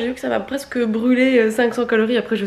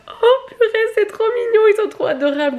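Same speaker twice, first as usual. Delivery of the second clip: gushing; 13 semitones higher than usual. Retold or imitated. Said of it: "j'étais là".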